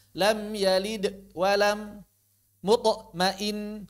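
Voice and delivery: slow, broken-up recitation with gaps after each echo; pausing after the bounce. Shown as a demonstration. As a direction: show the mistake of pausing inside mutmain. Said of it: "Jangan dijeda".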